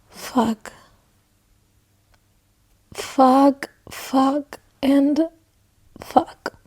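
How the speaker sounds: soft, choked curses; barely voiced, devastated swearing; quiet heartbroken cursing to herself. Real, not acted. Heartbroken by book twist.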